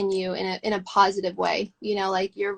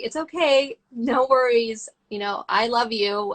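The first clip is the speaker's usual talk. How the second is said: mom voice. Acted. Talking kindly to her own mind while meditating, mom voice. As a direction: soothe like a mom comforting a small child. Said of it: "like, the mom voice".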